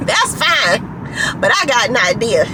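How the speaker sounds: a hint of a put-on Southern senator accent; bad Southern accent. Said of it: "that's such a bad accent".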